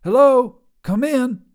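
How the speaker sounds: high, loud call into the CB; loud radio call. Acted. Trucker Sharon calling on her CB radio, loud and high. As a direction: bark it into the handheld radio. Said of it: "she said into the handheld radio".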